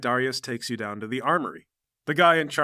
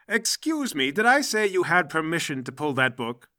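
higher-pitched, affronted librarian; indignant scolding; 4 semitones higher than usual. Acted. Librarian catches dad pulling a book, indignant scolding. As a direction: challenge him, starting high on the first words.

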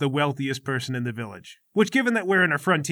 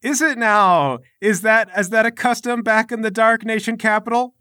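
sceptical challenge; 9 semitones higher, 7 dB louder than usual. Acted. Patricia challenges the custom, louder.

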